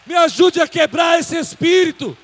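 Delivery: loud, high, shouted preaching; full-force preaching. Real, not acted. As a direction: rouse the congregation at the top of your voice. (pregação aos gritos, com toda a força)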